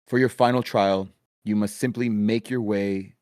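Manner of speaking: loud formal announcement; magically amplified voice. Acted. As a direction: announce the rules to the arena. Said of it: "magically amplified voice".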